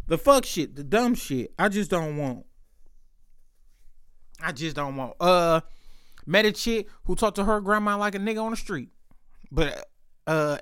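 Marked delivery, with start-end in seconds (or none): 4.4-5.1 softer resigned echo; trailing off quietly. Real, not acted. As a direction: repeat it much softer, fading.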